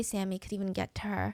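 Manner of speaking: normal talking voice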